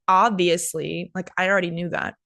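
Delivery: talking down to someone; sarcastic. Shown as a demonstration. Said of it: "to sound condescending or sarcastic".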